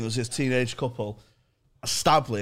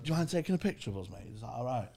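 nicely asked; 8 dB quieter, faster than usual. Retold or imitated. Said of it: "Dead, dead nicely asked Colin".

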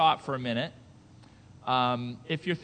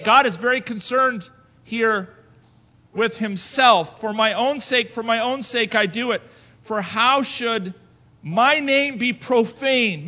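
loud, higher, punching each claim with pauses; forceful preaching; 4 semitones higher, 7 dB louder than usual. Acted. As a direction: thunder it from the pulpit.

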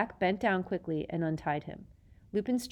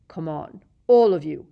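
commanding; 12 dB louder than usual. A narrator's reading. Snape commanding.

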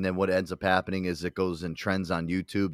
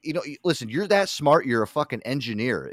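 normal talking voice

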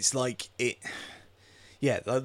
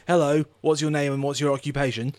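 lightly voiced kid, higher and louder; odd kid quizzing; 4 semitones higher, 7 dB louder than usual. Film's weird kid quizzing people, lightly mocked higher voice. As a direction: pipe up loudly with an over-direct question. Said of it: "he keeps asking".

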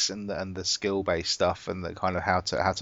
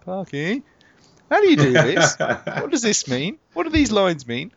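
higher, pleading, a bit lost; helpless asking voice; 10 semitones higher, 4 dB louder than usual. Retold or imitated. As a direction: play yourself begging for help. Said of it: "all it is is me going".

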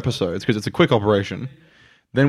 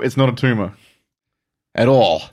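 Arnold Schwarzenegger impression. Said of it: "He sounds like that".

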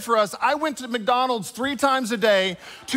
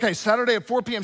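"Okay, Saturday at four P M" rushed out fast; hurried husband echoing "Saturday at four P M"; rattled-off agreement; 2 semitones higher, much faster than usual. Retold or imitated. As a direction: breezily toss off "Saturday at four P M". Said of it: "I was like".

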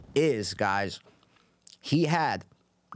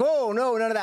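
pit boss; 8 semitones higher than usual. Retold or imitated. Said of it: "and he's like".

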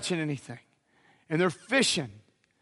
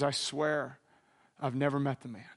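lower, softer sworn denial; 5 semitones lower, 7 dB quieter than usual. Retold or imitated. Peter denies Jesus to an accuser, low and quiet.

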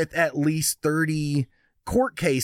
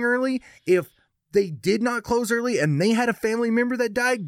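ranting; 5 semitones higher than usual. Real, not acted. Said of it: "you stopped the rant".

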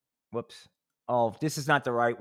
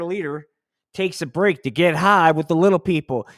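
loud, higher cheesy announcer; puppet announcer; 4 semitones higher, 6 dB louder than usual. Pretend. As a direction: sell it like a propaganda TV host. Puppet presenter voice, North Korea bit.

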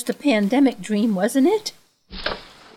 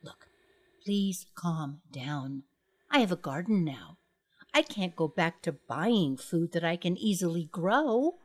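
hushed pleading; 4 semitones lower, 6 dB quieter than usual. Acted. Calming the giant at night.

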